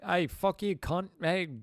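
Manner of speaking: loud, high-pitched mock British accent; attempted British accent. Streamer trying out an accent on viewers, mock British. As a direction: yell it in a shaky-grasp British accent. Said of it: "how is my accent".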